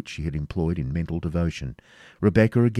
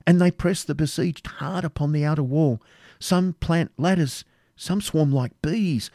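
higher, urgent eyewitness account; agitated Rebecca, distressed battle report; 9 semitones higher than usual. A narrator's reading. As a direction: report the assault with growing horror. Rebecca reports and laments the slaughter.

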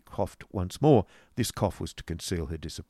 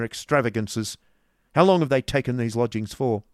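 put-on louder, brusque old moneylender; stern businessman; 5 semitones higher, 7 dB louder than usual. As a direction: lay it down hard and brusque. Ralph voiced through dialogue.

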